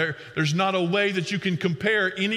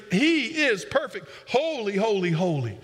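awed proclamation; 3 semitones higher than usual. Retold or imitated. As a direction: lift it up like worshippers in awe. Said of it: "they're looking at him and saying".

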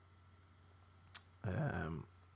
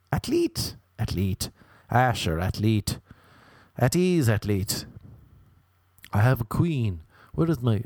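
mock alpha drill. Mocks repeating athlete.

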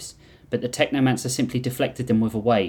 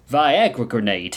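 smirking; slower than usual. Acted. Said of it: "he smirked".

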